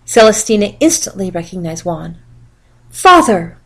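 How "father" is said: loud, urgent call of Father; crying out. A narrator's reading. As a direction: call across the hall to the king. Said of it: "she cried".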